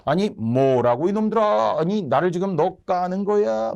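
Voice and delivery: acted indignant roar, not full volume; nobleman's scolding. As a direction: play an affronted nobleman telling off servants. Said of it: "양반의 호통이에요".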